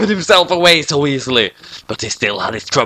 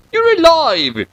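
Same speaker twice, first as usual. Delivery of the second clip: cheer; 14 semitones higher, slower than usual. Acted. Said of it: "cheered Soichiro".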